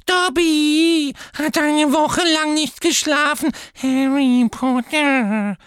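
very high, loud, proud squeak; Dobby boasting to Harry; proud house-elf. A narrator's reading. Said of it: "verkündete Dobby stolz".

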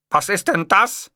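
high, slow appalled question. A narrator's reading. Boss hearing the clownish ringtone, appalled. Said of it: "fragte ich entsetzt".

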